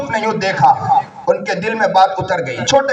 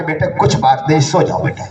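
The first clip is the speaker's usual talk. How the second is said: tender mother; 3 semitones lower than usual. Retold or imitated. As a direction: settle him back to sleep. Mother soothing her son.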